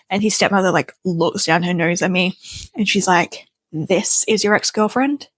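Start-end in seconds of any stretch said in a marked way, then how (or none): 3.7-5.3 nasty tone. Retold or imitated. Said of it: "nastiness, like, dripping off this woman's tone".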